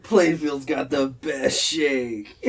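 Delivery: slow, drawn-out mock of a heartfelt boast; teasing mimicry. Host mimics friend's local pride, slow teasing drawl. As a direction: stretch every word, gently mocking the speaker. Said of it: "I heard that from a corner of your heart".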